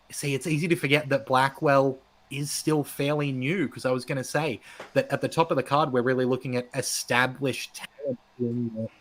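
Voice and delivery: muffled underwater mic sound; talking underwater. Real, not acted. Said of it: "like, you're talking underwater all of a sudden".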